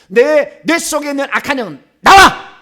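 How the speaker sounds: high, loud exorcism order; direct command. Shown as a demonstration. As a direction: build to an explosive final shout. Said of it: "직접 명령해도 돼요".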